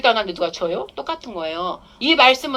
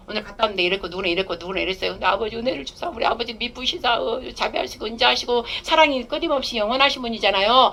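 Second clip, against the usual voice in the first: venting prayer. Shown as a demonstration. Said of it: "불만 토설을 하라고".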